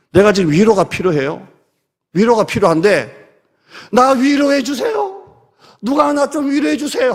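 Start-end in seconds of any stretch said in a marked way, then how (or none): 3.9-7.1 whiny plea. Retold or imitated. Mock whining for comfort.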